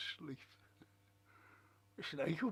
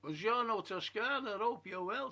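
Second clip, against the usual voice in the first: reading greeting brightly; 5 semitones higher, 5 dB louder than usual. Retold or imitated. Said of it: "says Bella".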